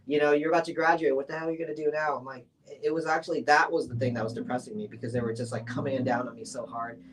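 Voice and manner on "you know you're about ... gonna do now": raised, higher, exasperated imitation of nagging; mock-scolding, pushed louder at the start; parents' scolding. Parents berating their art student child, retold exasperated scolding.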